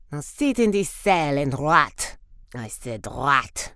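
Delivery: a hint of a cold villain, deep on the threats; lightly voiced villain. Villain locks someone in a cell.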